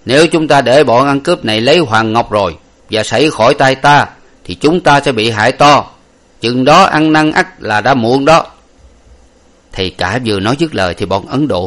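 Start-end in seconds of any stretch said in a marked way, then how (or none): 0.0-8.5 higher, louder grave warning; old priest warning his followers, higher and louder; priest's warning. Acted. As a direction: warn the others darkly of the danger. Priest warns of the robbers.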